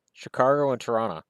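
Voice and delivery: "Chicago" with an R, "Chicargo", and "Toronto" as "Tronna"; dad's Chicago. Retold or imitated. Dad answering his teenage son, "Chicargo and Tronna". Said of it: "when he said Chicago".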